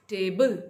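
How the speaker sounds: "टेबल" with a stressed first syllable. Shown as a demonstration. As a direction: hit टे in "टेबल", lighter बल. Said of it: "stress है वो टे के साथ".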